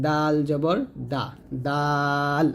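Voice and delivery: slow দাল and দা, tongue at the front teeth; light দাল, made where তা is made; thin dental D. Shown as a demonstration. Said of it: "তর মতো দাল উচ্চারণ করবেন". (দাঁতে জিভ লাগিয়ে পাতলা দাল)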